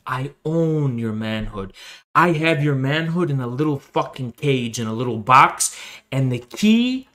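low, soft, creepy gloating; low menacing taunt. Acted. Streamer taunts his rival Pogan, low and softly menacing.

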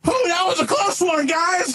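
relieved, high sidekick voice; Leroy. Acted. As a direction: puff it out with big relief. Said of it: "Leroy's like".

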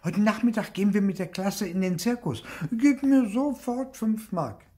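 put-on high, loud child demanding money; excited, bossy high-pitched shout; calling out. A narrator's reading. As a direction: call to mum in a high, insistent child's voice. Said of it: "und rief".

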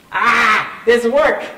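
loud cry bursting out after singing; exclaiming. Real, not acted. Preacher breaks off the song to warn it is work, exclaiming. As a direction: shout it out with full force.

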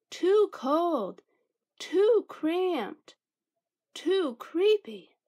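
high, tight little mouse squeak; squeaky mouse voice. A narrator's reading. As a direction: squeak it out like a tiny nervous mouse. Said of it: "squeaked Mortimer".

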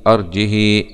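أرجه without hamza, ending in short "hi"; kasra with qasr. Shown as a demonstration. Teacher repeating the fifth reading, أرجه with short "hi". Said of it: "بدون همز وبالكسر للهاء مع القصر".

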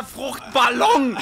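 slow, high, loud; drawn-out shouted punchline. Real, not acted. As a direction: belt the silly word. Joking after a flub.

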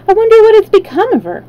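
put-on high, fast worried girl; fretting, rushed and high; anxious. A narrator's reading. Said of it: "answered the girl anxiously".

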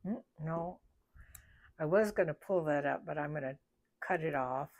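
talking around a pin held in the lips; pin in mouth. Real, not acted. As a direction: speak with a pin between your lips. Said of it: "Sorry, I got a pin in my mouth".

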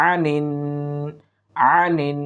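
"আনিন" opening with a mid-throat ain; correct ain. Shown as a demonstration. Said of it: "আইনটার উচ্চারণটা আমরা সহি করার চেষ্টা করব". ("আনিন"-এর আইন হলক থেকে উচ্চারণ)

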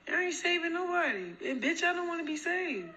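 scornful laugh through the words. Real, not acted. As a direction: laugh them off mid-line. Laughs at nosy viewers.

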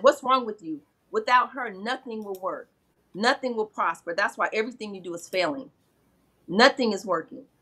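Olodumare scolding the ones who left her out, mildly angry; retold anger. Creator scolding the spirits for sidelining the woman, mild anger. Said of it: "he's angry".

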